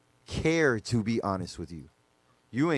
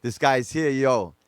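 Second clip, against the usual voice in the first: louder, drawn-out excited shout-out; slow, hyped-up retold hail; excited greeting; 5 dB louder, slower than usual. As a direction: retell being thrilled someone showed up. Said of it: "I'm excited 'cause I see him".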